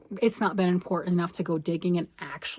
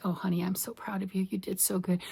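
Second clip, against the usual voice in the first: mock husband; 6 dB quieter than usual. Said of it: "he's like".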